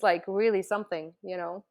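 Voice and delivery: ordinary delivery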